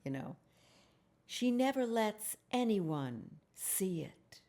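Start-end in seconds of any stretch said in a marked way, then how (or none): 1.2-4.4 slow, secretive whisper; whispered quote. Retold or imitated. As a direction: breathe it like a secret. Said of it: "another woman".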